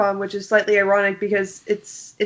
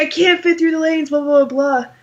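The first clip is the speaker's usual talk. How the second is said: put-on high, angry screaming complaint; 7 semitones higher than usual. Retelling how a woman on a scooter yelled at security: imitating someone screaming. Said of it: "starts screaming at him".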